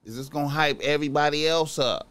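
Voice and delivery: normal talking voice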